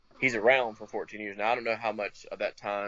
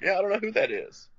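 high-pitched mock shout back; imitated holler; 10 semitones higher, 3 dB louder than usual. Townspeople hollering all over the place, imitated holler. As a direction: holler it back as a retold reply. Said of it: "people are hollering all over the place".

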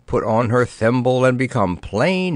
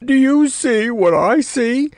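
high, louder strangled cry of alarm; choked fright; 12 semitones higher, 4 dB louder than usual. Acted. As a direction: choke the question out in panic. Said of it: "choked King Fumbo".

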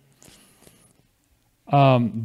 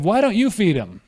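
raised pitch, mild exasperated challenge; retold inward snap; 4 semitones higher than usual. Preacher retelling his reply to a critic, mildly snapping. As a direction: mildly snap back with a pointed question. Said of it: "I snapped".

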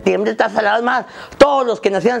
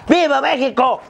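higher, ceremonial cheer; Grito leader's cry; 5 semitones higher than usual. Acted. Comic acting out the leader of the independence Grito, crying out. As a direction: call out the hero's name to a crowd. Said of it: "el grito".

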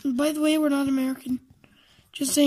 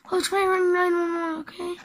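panicked cry; 3 semitones higher, faster than usual. Acted. Panicked plea for help.

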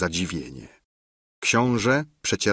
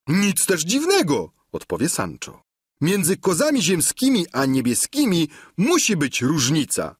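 higher, knowing peasant squire; Sancho's voice; 7 semitones higher than usual. A narrator's reading. Sancho answers the duke, high and knowing. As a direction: explain it as plain fact.

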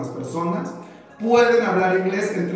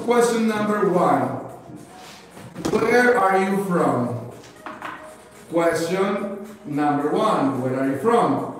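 slow, deliberate English for learners; slow question reading; slower than usual. Shown as a demonstration. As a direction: read out each question slowly and distinctly. Teacher reads out numbered questions slowly. (lectura lenta y pausada en inglés)

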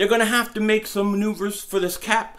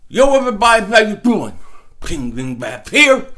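numb face; 7 dB louder than usual. Real, not acted. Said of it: "half of my face is numb".

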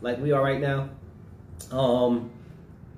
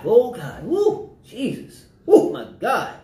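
doing jumping jacks; 6 semitones higher, 4 dB louder, slower than usual. Retold or imitated. Winded mid jumping jacks.

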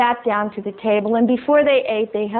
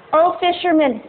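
groundhog voice; 6 semitones higher than usual. Acted. Enchanted groundhog speaks to fisherman.

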